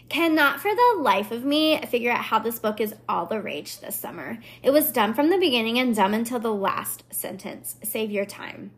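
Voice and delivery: lightly put-on Valley Girl complaint; a hint of exasperated Valley Girl, tailing off. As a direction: read it as a mildly mocking Valley Girl. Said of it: "the Valley Girl kind of is my go-to voice".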